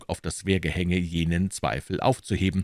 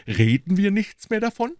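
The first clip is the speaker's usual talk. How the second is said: higher, rising mimicry of Aramis's words; mocking echo; 14 semitones higher, 5 dB louder than usual. A narrator's reading. Porthos mocks Aramis's words, sarcastic rising echo. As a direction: throw his words back in mockery. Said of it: "sagt er heute".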